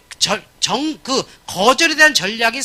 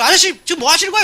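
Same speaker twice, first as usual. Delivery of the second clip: mock indignant mother; 5 semitones higher, 5 dB louder than usual. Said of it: "이러는 거야".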